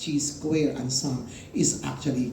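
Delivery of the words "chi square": CHI read as "chee", with a ch sound; chi rhyming with "see", starting like cheese; common mispronunciation. Shown as a demonstration. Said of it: "would be commonly pronounced as".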